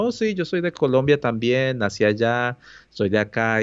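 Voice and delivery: bursting to connect; enthusiastic. Retold or imitated. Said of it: "todo entusiasmado".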